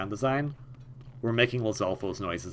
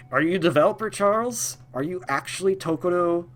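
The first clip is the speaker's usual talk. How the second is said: higher, pitched-up disbelieving questions; mock incredulous; 7 semitones higher, 4 dB louder than usual. Gamer quizzes his monkey companion Charles in pitched-up mock disbelief. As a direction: play it like you can't believe the monkey. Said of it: "and it's like".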